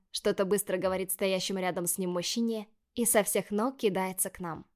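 ordinary delivery, nothing marked

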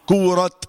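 "كورت" ending on an audible breathy ت; hissed final taa. Shown as a demonstration. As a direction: let the ت of "كورت" whisper out. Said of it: "دي الهمسة بقى".

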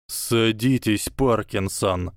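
slow, cold hissed order; hissed command. Acted. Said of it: "прошипел мастер зелий". (холодно прошипеть)

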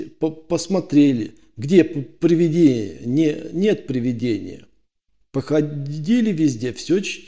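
frightened stammering. Acted. Frightened guard justifies himself.

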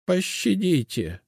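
high, slow begging. A narrator's reading. Witch begs the captors for mercy. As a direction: plead for mercy. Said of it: "продолжала умолять".

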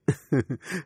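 a small breathy laugh near the ear; light tender chuckle; soft laugh. A narrator's reading. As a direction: laugh gently through the words. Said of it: "anh lại cười".

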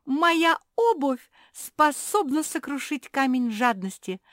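high, loud delighted cry; bursting with joy; gleeful. A narrator's reading. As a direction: crow with triumph. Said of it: "обрадовалась Жози".

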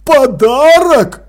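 «Подарок?» медленно, громко, выше, с падением; в ужасе переспрашивает. Acted. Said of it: "с ужасом переспросил Крохобор". (Крохобор в ужасе переспрашивает «Подарок?»)

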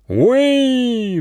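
very high battle whoop; war whoop. Acted. The ferret pack charges with a high war whoop. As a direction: let out a wild charging yell. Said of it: "с воинственным воплем".

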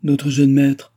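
loud, high cry of joy; servant's loud, glad outburst; joyful exclamation. A narrator's reading. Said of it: "avec un grognement de joie".

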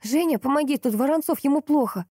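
panicked cry to the driver below; yelling for help. A narrator's reading. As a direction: call down to Zhenya in alarm. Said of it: "я заорала".

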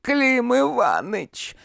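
high, slow cawing call of a busty tavern woman; hoarse caw. Acted. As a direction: caw the name out like a crow. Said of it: "хрипло прокаркала грудастая".

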